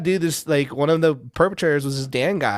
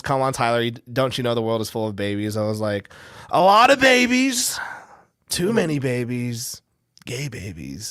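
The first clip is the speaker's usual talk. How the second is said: a hint of Trump, replayed; retold Trump voice. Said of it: "your Trump voice sounds like Shane Gillis".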